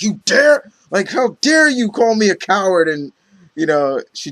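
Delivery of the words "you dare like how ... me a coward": higher-pitched mock indignation; indignant Zealot. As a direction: act out an offended warrior's outrage. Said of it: "Zealot gets pissed after that".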